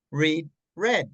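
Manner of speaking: "Read, read" said as "reed, red"; long ee first, then short e in "Read, read"; present then past pronunciation. Shown as a demonstration. Teacher contrasts tenses for learner, "reed" then "red". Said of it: "en pasado cambia la pronunciación".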